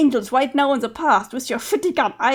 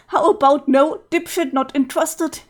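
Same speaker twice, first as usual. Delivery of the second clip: loud rejection; 2 semitones higher, 4 dB louder than usual. Acted. Rejecting flirt loudly.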